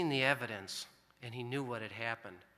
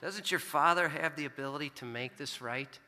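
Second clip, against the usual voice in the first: gentle voice of God; 3 semitones higher than usual. Retold or imitated. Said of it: "God spoke to me and said the exact same thing".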